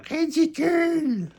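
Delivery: high, drawn-out disdain; head elf scoffing; scornful grumble. A narrator's reading. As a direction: roll your eyes at it. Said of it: "lève les yeux au ciel et marmonne".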